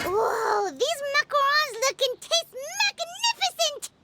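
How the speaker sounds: bright, eager gush over the sweets; excited praise. Real, not acted. Paimon tasting Navia's macarons, excited. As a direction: gasp with delight at the taste.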